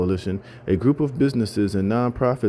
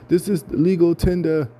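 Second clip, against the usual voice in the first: imitating an old British man's accent, higher and slower; mock-indignant British accent, pitched up; 8 semitones higher than usual. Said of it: "in this little accent".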